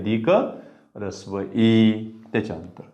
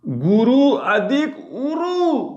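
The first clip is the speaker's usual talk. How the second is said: गुरु अधिक उरु stretched out slowly on a higher pitch, every syllable held long; slow drawn-out dictation; 11 semitones higher, 3 dB louder, much slower than usual. Shown as a demonstration. Teacher to students writing the example, slow high drawn-out dictation. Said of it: "पहा बरं".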